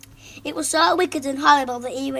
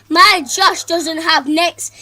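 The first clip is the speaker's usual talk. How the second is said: slow, loud, higher shout; shouting mother; 4 semitones higher, 10 dB louder, much slower than usual. Acted. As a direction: yell it out in outrage. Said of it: "shouted his mother".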